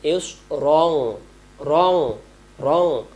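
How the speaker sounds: "রং" with lips rounded, heavy র; rounded mouth. Shown as a demonstration. Teacher demonstrates rounded mouth, "রং" heavy and full. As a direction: round the mouth fully on each "রং". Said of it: "মুখটা গোল হবে".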